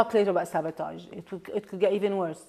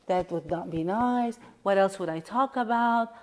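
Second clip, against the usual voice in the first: voicing inner resistance. Shown as a demonstration. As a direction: mull it over like someone clinging to a habit.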